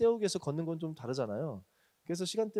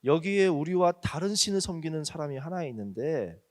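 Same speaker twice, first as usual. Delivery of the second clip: stern serious plea; 5 dB louder than usual. Retold or imitated. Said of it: "좀 정색을 하고는 얘기한다는 거예요".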